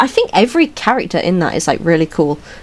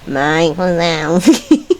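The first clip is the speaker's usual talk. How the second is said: film quote; 4 semitones lower, much slower than usual. Retold or imitated. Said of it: "vocal sims from this film".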